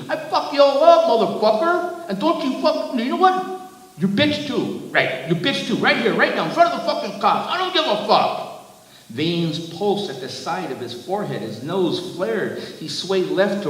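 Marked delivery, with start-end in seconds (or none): 0.1-8.6 high-pitched, raging tirade; furious scream. A narrator's reading. Giant threatening the driver before the cops, furious scream. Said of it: "the giant screamed".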